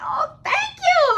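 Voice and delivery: very high, loud, drawn-out squeal; retold excited thanks. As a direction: imitate your overjoyed self accepting a compliment. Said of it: "I was really excited".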